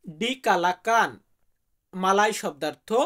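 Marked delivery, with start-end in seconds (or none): 0.1-1.2 slow, careful ডিকালাকান spelled out syllable by syllable; Malay word. Shown as a demonstration. Teacher slowly sounding out ডিকালাকান for Bengali viewers. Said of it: "Malaysian ভাষাতে বলা হয়".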